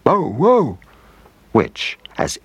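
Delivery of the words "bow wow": higher bow wow, courteous; a well-mannered dog's reply; much higher dog voice; polite dog. A narrator's reading. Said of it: "Puto smiled back and said".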